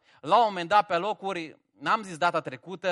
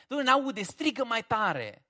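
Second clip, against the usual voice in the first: mocking taunt; 5 semitones higher, 3 dB louder than usual. Elijah taunting Baal's prophets, mocking and loud. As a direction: tease them: shout louder, he can't hear. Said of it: "face bășcălie de ei".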